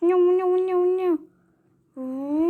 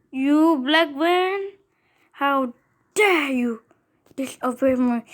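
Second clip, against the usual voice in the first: mock villain. Kid voices a villain to car.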